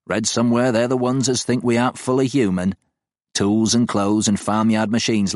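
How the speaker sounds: a hint of an opinionated old countryman; lightly voiced old farmer. Art voiced in the story.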